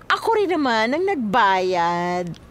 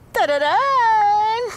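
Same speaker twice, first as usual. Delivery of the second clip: loud, drawn-out tararan then giggle; teasing fanfare; 8 semitones higher, 4 dB louder, much slower than usual. Acted. Sylvia teasing Berto before the news, gleeful. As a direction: announce it like a big reveal.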